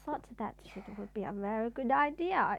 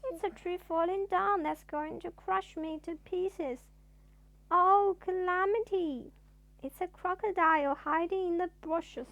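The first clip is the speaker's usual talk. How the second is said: panicky; 5 semitones higher, 4 dB louder than usual. Acted. Mister Jelly panicking at noise.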